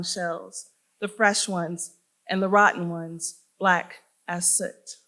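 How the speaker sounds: measured, deliberate poem recital; poetry reading. Acted. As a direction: read it as a poem, phrase by phrase with pauses. Reads own poem aloud.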